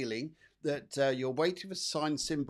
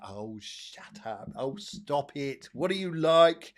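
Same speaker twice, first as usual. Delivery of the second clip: modest protest; 5 dB louder, slower than usual. Pretend. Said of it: "I know she'll be saying".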